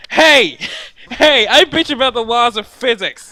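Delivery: loud protest. Real, not acted. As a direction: jump in high and loud. Protests teasing about his complaining.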